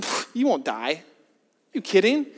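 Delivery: a light mocking scoff, slow on the question; mockery. Serpent scoffing at Eve's fear of death, mild mockery. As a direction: toss off a lightly voiced sneer at the warning. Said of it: "you can almost hear the mockery in his tone".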